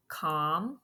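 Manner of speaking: Com-pete-ing split into three separate beats; syllable by syllable. Shown as a demonstration. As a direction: break Com-pete-ing apart, pausing between syllables. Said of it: "This one has multiple syllables".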